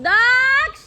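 loud, high call across the street. Real, not acted. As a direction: shout for her son outdoors, voice up high. Mother calling for missing son.

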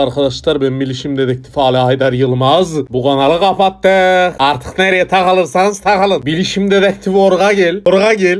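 bilişim dedektifi, meydan okuyan. Acted. Plays a cyber detective character. (meydan okuyan bilişim dedektifi sesi)

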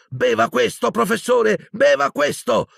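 high, strained pleading cry; frantic urging. Acted. Boy making his tormented professor drink, frantic urging. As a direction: urge him desperately over his cries.

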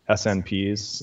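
"S N Ps" said letter by letter; spelled out. Shown as a demonstration. Explaining the abbreviation to the host, "S N Ps" spelled out letter by letter. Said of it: "they just pronounce it as snips".

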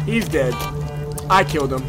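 ordinary talk

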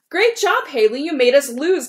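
high, loud sarcastic complaint; mock-praise the loser bitterly; complaining. Teammate blaming Haley for losing, sarcastic and high. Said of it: "complained Andrea".

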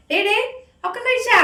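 cooing at pet. Real, not acted. Talking to the cat.

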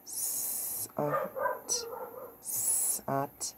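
S, A, T sounded in quick succession. Shown as a demonstration. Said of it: "Let's go a little faster".

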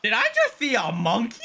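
shouted out in disbelief; startled shout. Real, not acted. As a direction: blurt it out, shocked. Sudden shock at a monkey.

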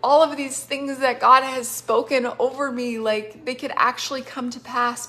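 giddy, imagined exclamation; giddy with excitement. Acted. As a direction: act out someone thrilled and amazed. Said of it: "giddy with excitement".

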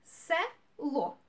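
"село" as two beats, се and ло apart; syllable by syllable. Shown as a demonstration.

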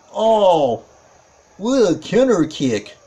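impressed ringside commentator outburst; excited play-by-play. Real, not acted. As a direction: react big to the surprise counter. Reacting to a counter move live.

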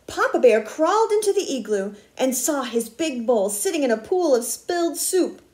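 put-on expressive read-aloud to children; story narration. A narrator's reading. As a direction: read a picture book with lively word emphasis. Reads a picture book aloud.

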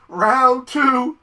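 loud, high announcing cry; returning bat's challenge. Acted. Imagined bat announcing a rematch, high loud cry. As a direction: call out the rematch, stretched high. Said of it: "It's gonna be like".

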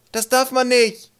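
high, loud, drawn-out protest; calling out. A narrator's reading. Another troll scolding Twig, calling out. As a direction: cry out the broken rule slowly. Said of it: "rief ein anderer".

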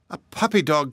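"A puppy dog?" asked in disbelief, pitch up; a mother who can't believe what she sees; mild shocked question from mammy; startled mother. Acted. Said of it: "cried his mammy".

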